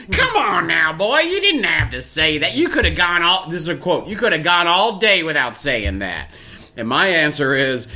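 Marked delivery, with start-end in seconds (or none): 0.1-6.3 fatherly scold. Retold or imitated. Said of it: "She turned into my dad".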